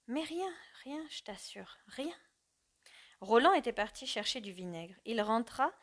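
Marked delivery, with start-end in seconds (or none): 0.1-2.2 soft, rushed denial trailing into a whisper; low hurried voice. Acted. Mother hurriedly denies anything is wrong, low and rushed. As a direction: brush it off quickly and quietly. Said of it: "d'une voix basse, précipitée".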